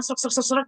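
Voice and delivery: quick crackly "srak" repetitions; imitated static noise. Shown as a demonstration. Trainer imitates microphone noise, fast crackle. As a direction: mimic mic rustle rapidly.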